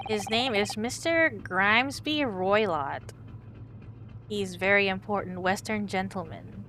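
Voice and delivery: proud Russian sailor introducing himself. Acted.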